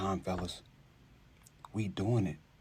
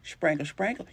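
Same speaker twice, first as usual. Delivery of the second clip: mocking mushy speech; 5 semitones higher than usual. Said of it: "Shira can't even talk right".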